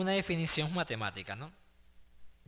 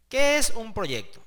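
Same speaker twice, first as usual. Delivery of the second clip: emphatic question; 6 semitones higher, 9 dB louder than usual. Shown as a demonstration. Teacher posing the lesson's opening question to students, loudly. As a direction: question thrown out higher and louder. Asks the key question aloud.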